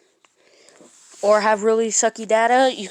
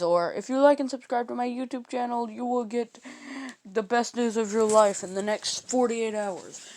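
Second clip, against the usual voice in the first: mock chain message; 3 semitones higher, 5 dB quieter than usual. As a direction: read it like a spooky chain letter. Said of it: "No, I'm not like them".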